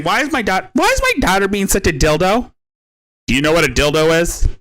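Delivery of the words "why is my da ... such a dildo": higher mocking quote; lightly put-on higher voice for the mother; mimicking the mother. Mocking what she's saying about her daughter, higher mimicry. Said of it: "it's like she's saying".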